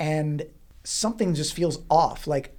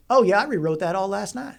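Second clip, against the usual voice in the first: lightly put-on breezy voice, a little higher; slightly raised, offhand imitation; bad Lee impression; 4 semitones higher, 3 dB louder than usual. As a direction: casually toss it off as a mock impression. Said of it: "I'm gonna do a bad Lee impression".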